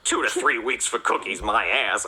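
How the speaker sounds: lightly acted sulky disgust; retold grumbling anger. Cop grumbling alone on the couch, understated anger. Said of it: "I say as I shove a cookie into my mouth in anger".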